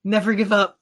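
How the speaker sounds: high, loud rousing hero voice; rally them while straining; heroic straining speech. Acted. Ondir holding jaws, speechifying.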